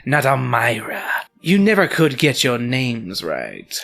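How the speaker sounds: slow, sharp ghost voice; mildly hammed-up ghostly scolding. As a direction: correct them sharply and deliberately. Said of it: "the voice says sharply".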